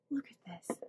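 hushed, near-whispered show-and-tell; hushed awe. Real, not acted. Showing viewers a glass penguin gift, in an awed whisper. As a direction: whisper it, very low and soft.

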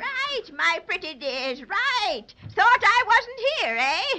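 put-on sly old witch voice; wicked witch taunting the children; gloating witch. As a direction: purr it like a witch who's caught her prey.

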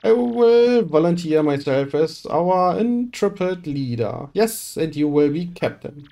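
a showy, theatrical rich merchant; pompous merchant voice. Acted. Boastful merchant recruiting the hero for a voyage, theatrical. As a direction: play it grand and self-important. Reads Flavio's lines in character.

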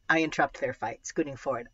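storytelling read-aloud voice; story narration. A narrator's reading. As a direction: read it like a middle grade novel. Reads a novel aloud.

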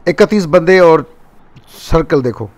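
loud hyped streamer commentary; excited shouting. Real, not acted. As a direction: shout it out, pumped for the fight.

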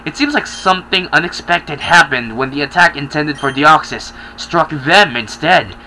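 lightly voiced scheming witch; witchy villain voice. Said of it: "I kinda sound like a witch".

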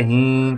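ही sounded through the nose, "heen"; nasal vowel. Shown as a demonstration. Teacher showing why the dot is written, nasal ही. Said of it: "कुछ कुछ नाक से आवाज़ आ रही है".

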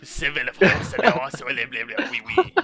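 loud babbled mock French; bad French accent. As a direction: rattle off nonsense in French accent. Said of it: "the worst French accent".

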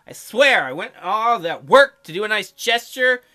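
a touch of nervous apology; flustered Charming. Acted. Voices Charming.

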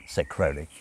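ordinary delivery

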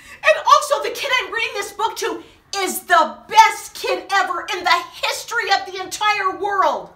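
giggling praise; laughing. Acted. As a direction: read it through laughter. Laughing flattery lines.

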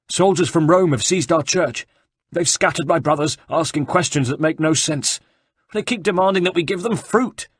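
high, loud, panicky monk voice; frightened monk. Acted. Frightened monk tells a stranger about the soldiers, high and panicky. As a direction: rush it out like a scared friar.

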